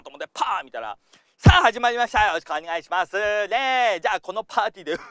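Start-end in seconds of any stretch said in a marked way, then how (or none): 1.4-5.0 loud, bouncy mock streamer opening; game YouTuber intro. Coach imitates a game YouTuber opening his video, loud and hammed-up. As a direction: ham up a gaming video host's greeting. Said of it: "もうこれで勝ったよっていう人".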